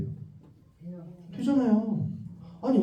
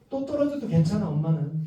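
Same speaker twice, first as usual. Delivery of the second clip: mild reassurance; 2 semitones lower, 3 dB quieter than usual. Shown as a demonstration. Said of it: "이렇게 얘기해".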